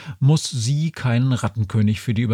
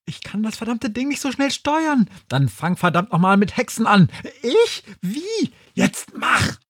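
high character voices; 10 semitones higher than usual. Acted. Characters bickering in spaceship.

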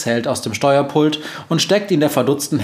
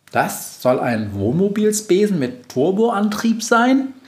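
higher, astonished question; 8 semitones higher than usual. A narrator's reading. Witch staring at the broom, higher and amazed. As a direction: marvel at the odd broom. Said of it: "fragt Befana erstaunt".

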